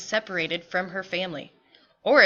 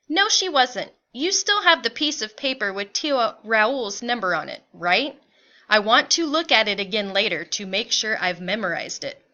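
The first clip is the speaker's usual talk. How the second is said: a touch more animated, mildly pressing; lightly voiced anxious mother. Mother to father about Tio Raul's number, mildly anxious. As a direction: play a mother checking, lightly urgent.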